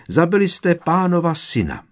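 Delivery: high, loud grieving cry; hysterical accusation. Acted. House-elf mourning her master's son, high loud wail. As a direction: wail it out in despair.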